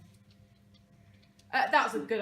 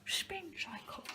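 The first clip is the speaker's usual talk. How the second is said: laughing; 10 semitones higher, 5 dB louder, much slower than usual. Real, not acted. Giggling over the hidden book.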